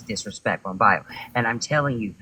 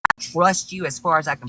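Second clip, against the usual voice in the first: higher and higher, angry accusing; furious rant; 6 semitones higher than usual. Real, not acted. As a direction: tear into him, rising pitch.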